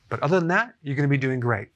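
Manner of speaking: mildly sarcastic, lifted on the opening words. Real, not acted. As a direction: say it as a dry, understated joke. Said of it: "I'm being sarcastic".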